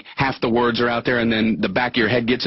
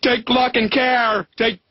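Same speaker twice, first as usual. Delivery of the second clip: flustered mix-up; 9 semitones higher than usual. Retold or imitated. Jumbled farewell mix-up.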